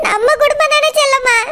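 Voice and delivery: crying through the words; tearful. Acted. Hurt sister-in-law asking Chellamma, crying. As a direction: plead through tears.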